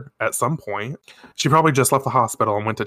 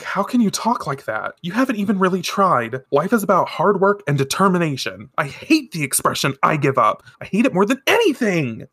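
higher-pitched indignant outburst, acted; upset scolding; 6 semitones higher than usual. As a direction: scold him for giving up, building at the end. Acted scolding, then storms out crying.

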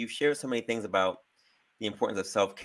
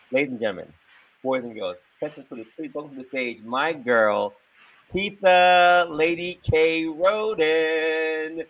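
grand entrance announcement; 7 semitones higher, 8 dB louder than usual. Acted. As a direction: hype up the crowd for her entrance. Host introduces guest to stage.

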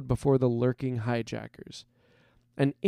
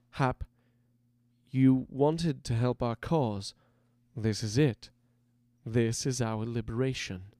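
soft, slightly lowered reassurance; fatherly consoling; 4 dB quieter than usual. A narrator's reading. Leader eases the shaken recruit to his feet, fatherly. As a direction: gently talk the boy round, a touch hushed. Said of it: "consoling him with a fatherly hand".

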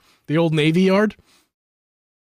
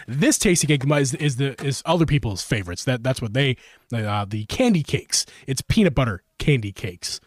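chewing gum; 2 semitones lower than usual. Real, not acted. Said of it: "got some gum in my mouth".

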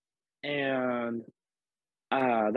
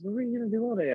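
teasing friend; 10 semitones higher, faster than usual. Retold or imitated. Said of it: "and she goes".

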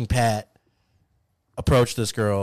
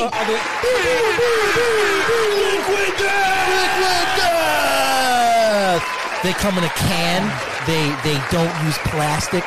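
over-the-top ad read; 10 semitones higher, 3 dB louder than usual. Acted. Hammed-up water commercial.

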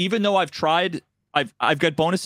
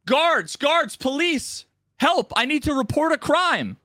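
higher, hammed-up cry for help; panicked NPC; 10 semitones higher than usual. Quest giver faking a crime for the guards, mock panic. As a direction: ham up a fake alarm. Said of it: "what he says is".

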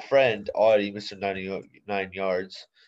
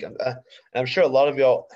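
something stuck in the mouth; mouth full; 4 semitones higher, 5 dB louder than usual. Real, not acted. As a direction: talk around something in your mouth. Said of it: "I got something in my mouth".

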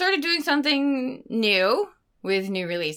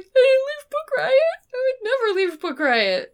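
emphatic; 14 semitones higher than usual. Retold or imitated. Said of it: "I was like".

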